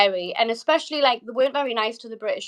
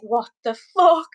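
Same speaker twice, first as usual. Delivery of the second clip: retold shocked outburst, louder and drawn out; appalled disbelief; 6 dB louder, slower than usual. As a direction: relive the disbelief, leaning on the swear word. Retelling shock at his threats.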